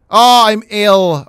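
mock groan. Player reacts to his character getting sick, mock groan. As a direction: ham up feeling ill.

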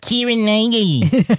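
put-on Boston accent. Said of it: "What did they say in Boston?".

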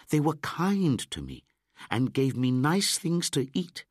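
put-on high, loud excited boy; Mowgli. A narrator's reading. Mowgli tells Baloo about the monkeys, high and loud. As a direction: tell it like an eager indignant child.

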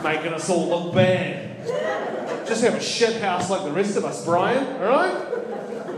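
grumbling Kiwi. Retold or imitated. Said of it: "Kiwis would be like".

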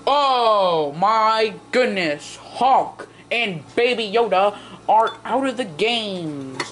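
slow, drawn-out dramatic announcement; game announcer. Pretend. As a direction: announce the knockout with drawn-out words. Announces toys' elimination.

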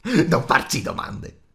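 loud, slow creature screech; strillo. A narrator's reading. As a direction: screech it to shut them up. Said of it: "strillò Gollum". (strillo rabbioso di creatura)

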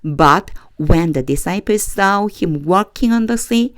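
slow, deliberate read-aloud for learners to follow; measured Bible reading for a class; slow scripture reading. Acted. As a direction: read each phrase slowly so the class can echo.

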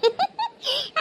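a quick high laugh; bright laugh. Acted. Girl laughing at the grown-ups teasing her, a quick high laugh. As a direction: let out a short amused laugh.

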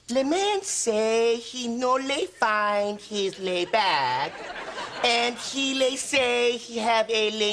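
mock French gibberish; fake foreign language. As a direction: fake French accent, adding le to words. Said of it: "You're just adding lead to every word".

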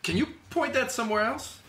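high, fast, panicked shriek; shrieking in fear. Acted. Sam shrieks at the woman whose gun bounced, high and fast. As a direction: blurt it out in a frightened squeal. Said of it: "Sam shrieks".

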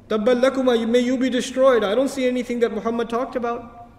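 sarcastic mockery. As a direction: sneer it out like a taunting enemy. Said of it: "He would make sarcastic commentary".

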